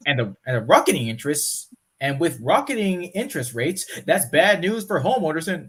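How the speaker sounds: news anchor read. Shown as a demonstration. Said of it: "I did that wrong".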